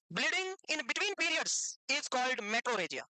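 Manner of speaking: very slow, word by word; slow definition. Real, not acted. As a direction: spell out the definition slowly for a class. Teacher dictates a definition. (धीरे-धीरे, शब्द-दर-शब्द परिभाषा)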